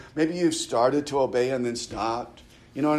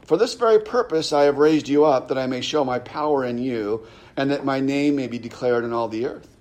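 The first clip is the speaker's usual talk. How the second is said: lightly raised, declarative Bible reading; scripture reading; 4 dB louder than usual. Acted. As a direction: read the verse out to the congregation.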